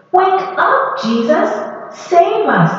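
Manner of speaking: high panicked yell; frightened yell. Acted. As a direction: cry out for rescue over the storm. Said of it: "they yelled".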